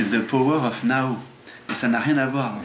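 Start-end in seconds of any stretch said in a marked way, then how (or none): 0.0-1.2 French accent in English. Real, not acted. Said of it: "Excusez-moi pour mon accent".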